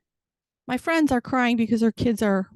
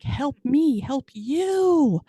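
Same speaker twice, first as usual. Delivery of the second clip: lightly acted movie-line plea, pitched up; Jerry Maguire; 5 semitones higher, much slower than usual. Comic parent begging the kids, mock movie plea. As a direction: plead it, stretching the last word high. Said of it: "I was like the Jerry Maguire of parenting".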